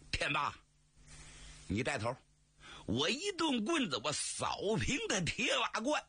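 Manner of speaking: a hint of a gruff brute boasting; lightly voiced booming strongman. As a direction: play the big stick-wielder bragging with a sneer. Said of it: "说话瓮声瓮气". (略带瓮声瓮气)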